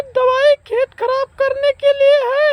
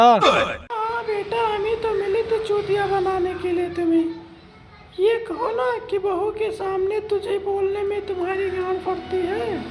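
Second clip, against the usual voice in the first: low, much softer, sneering mutter; bitter taunt; 4 semitones lower, 8 dB quieter than usual. Acted. Mother-in-law mocking her son for fearing his wife, low sneer. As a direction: drop the voice and sneer at him.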